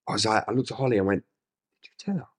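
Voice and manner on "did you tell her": high, very soft question; retold quiet, incredulous question; hushed aside. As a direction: ask it under your breath, pitched up.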